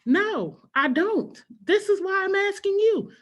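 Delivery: put-on high, loud, pleading child; whiny kid voice. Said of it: "And she'd be like".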